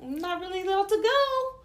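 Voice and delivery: high, soft voice acting out her objection; high-pitched retold protest. Her answering the boyfriend while dancing, high mock protest.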